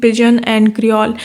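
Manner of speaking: reading the definition slowly, word by word; slow dictation. Shown as a demonstration. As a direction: dictate it so students can write. Dictates topic heading slowly. (धीरे-धीरे लिखवाते हुए पढ़ना)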